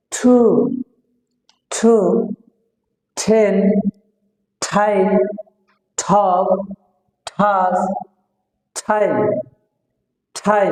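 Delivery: "ঠু", "টেন", "ঠাই" with a puffed t; word by word, strong puff opening "ঠু"; aspirated T drill. Shown as a demonstration. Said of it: "তাহলে কিভাবে হবে?". (মহাপ্রাণ ঠ দিয়ে "ঠু", "ঠাই")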